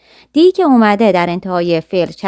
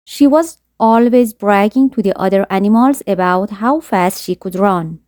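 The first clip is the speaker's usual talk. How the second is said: slow story reading; much slower than usual. A narrator's reading. Reads story sentence slowly.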